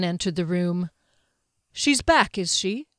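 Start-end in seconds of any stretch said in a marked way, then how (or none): 1.7-2.9 light, higher opening that eases down; pleasantly. A narrator's reading. Mage entering the sickroom, pleasantly. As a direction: greet her with an easy pleasantness. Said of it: "he said pleasantly".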